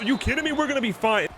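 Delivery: high-pitched cry of disbelief; stunned disbelief. Real, not acted. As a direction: gasp it out as the kick goes wide. Field goal going wide.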